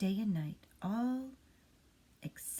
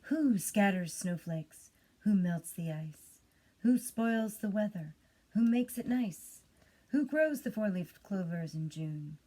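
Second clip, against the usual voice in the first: stage recitation. Acted. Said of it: "as if from a stage".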